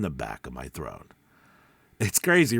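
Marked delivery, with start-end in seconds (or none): 0.0-1.1 slightly deeper, throat-placed voice; back of the throat. Shown as a demonstration. Teacher showing what he pictured, voice set back in the throat. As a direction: speak from the back of your throat. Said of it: "I just did it in my mind".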